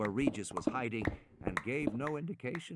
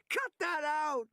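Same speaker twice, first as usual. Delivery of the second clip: slow, much higher yell; slower than usual. A narrator's reading. Man knocked flat by a dinosaur, yelling. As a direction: stretch the yell out in protest. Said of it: "Regis yelled".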